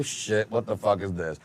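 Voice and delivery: low, slow, hushed "what the fuck"; hushed disbelief. Retold or imitated. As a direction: mutter it under your breath in shock. Studio crew reacting, hushed.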